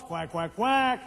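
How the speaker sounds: mock the excuse with duck quacks; duck quacking. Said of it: "They go quack".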